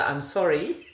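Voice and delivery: "I'm sorry." said through a laugh; amused demo of the proper phrase; laughing apology. Shown as a demonstration. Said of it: "You must say rather".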